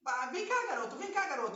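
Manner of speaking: high, eager call to the dog; playful call. Shown as a demonstration. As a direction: coax the puppy to follow. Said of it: "vai começar a agitar ele".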